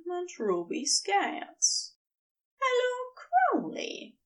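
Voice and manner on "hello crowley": bright, much higher, friendly hello; pleasant greeting. A narrator's reading. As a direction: greet an old acquaintance pleasantly. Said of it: "Aziraphale says pleasantly".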